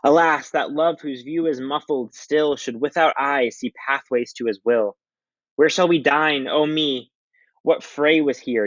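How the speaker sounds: high, slow, drawn-out lovesick voice; mopey Romeo. Acted. Reading Romeo to the class, high and slow and lovesick. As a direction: sigh each line like a heartbroken boy.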